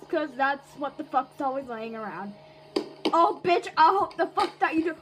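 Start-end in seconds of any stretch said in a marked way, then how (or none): 3.1-4.9 fast taunt through laughter; laughing taunt. Real, not acted. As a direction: laugh while you taunt.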